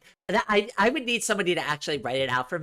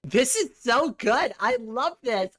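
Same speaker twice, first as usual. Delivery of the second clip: excited; 9 semitones higher, slower than usual. Real, not acted. Reacting to new members joining.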